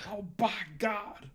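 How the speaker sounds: high, loud, slow shouted call; J R's scream. Retold or imitated. Echoing J R screaming at a surprise RKO, loud slow shout. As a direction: belt it out like a ringside announcer losing it. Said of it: "J R just screaming out of nowhere".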